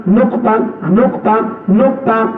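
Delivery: নোকতা repeated as a drill; teaching recitation. Shown as a demonstration. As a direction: say নোকতা clearly for children. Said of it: "এটা আরবিতে বলে নোকতা". (শেখানোর ভঙ্গিতে নোকতা)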